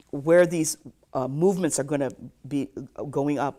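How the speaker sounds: ordinary delivery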